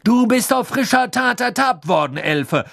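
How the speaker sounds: loud, high accusing outburst; blustering. A narrator's reading. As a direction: thunder the accusation at a cornered servant. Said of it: "polterte Mister Diggory".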